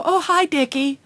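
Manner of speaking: a light, chummy hi from mom; mom greeting the coach. Retold or imitated. Mom jogging past the coach, chummy greeting. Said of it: "she would go".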